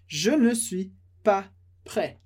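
Je ne suis pas prêt said slowly, each part apart; slow model. Shown as a demonstration. Teacher modeling the sentence slowly for students. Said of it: "Por isso essa frase".

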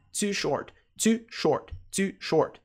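TOO in "too short" with a clean 't', no 'ch'; correct too short. Shown as a demonstration. Teacher models for learners, TOO with a clean 't'. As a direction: drill it evenly, TOO starting on a pure 't'. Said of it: "pronúncia, não é".

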